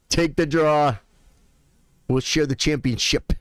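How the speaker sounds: lightly imitated little boy from a film; little boy accent. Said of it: "his little boy accent".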